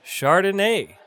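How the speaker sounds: Chardonnay said shar-duh-NAY; model pronunciation. Shown as a demonstration. Bartending teacher models a wine name, clear pronunciation. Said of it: "That's how you pronounce".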